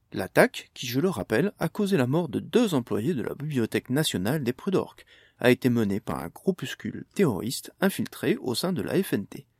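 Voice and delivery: lightly voiced TV news anchor; news read. TV anchor reporting the attack to viewers, light news read. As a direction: read it like a mild evening news bulletin.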